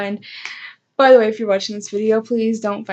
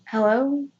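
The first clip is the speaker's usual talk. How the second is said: hello in the style of a famous singer; 3 semitones higher than usual. Retold or imitated. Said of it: "Like Adele's".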